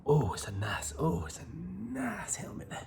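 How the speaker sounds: whispering. Acted. Whispered repeated remark.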